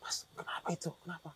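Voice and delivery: hushed, voiceless whisper; whispered question. Retold or imitated. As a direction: ask it under the breath, in a whisper. Bertanya berbisik saat temannya kerasukan. (bertanya sambil berbisik)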